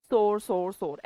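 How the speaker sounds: सोर three times, each with the same long 'o'; Indian pronunciation. Shown as a demonstration. Teacher showing sore, sour and soar said alike, Indian pronunciation. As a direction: say every सोर identically, like "sore". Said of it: "हम Indian pronunciation पे जाते हैं".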